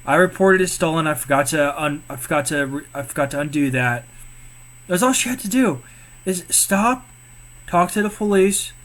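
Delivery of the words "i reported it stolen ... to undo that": peaceful explanation. Retold or imitated. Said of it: "peacefully say".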